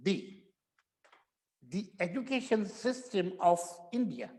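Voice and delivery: "The" said as a short weak thuh before a vowel; weak form the. Shown as a demonstration. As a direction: say "the" lightly, thuh, before education. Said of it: "ऐसे करके".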